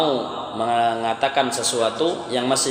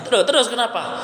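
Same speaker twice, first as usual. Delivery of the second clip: high, giggly pressing; laughing prod; 8 semitones higher than usual. Retold or imitated. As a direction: push for the reason, half laughing. (mendesak sambil tertawa)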